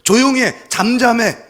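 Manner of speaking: high, loud acted commands; silencing authority. Government silencing people's demands, barking orders. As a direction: shout them into silence. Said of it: "정부도 우리를 해결해 주지 못하는".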